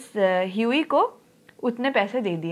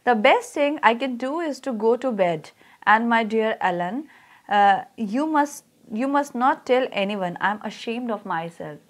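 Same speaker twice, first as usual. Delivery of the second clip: slow, measured reading of a text; story read-aloud; much slower than usual. Real, not acted. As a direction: read it out slowly for a class, stretching the words. Reads the lesson text aloud.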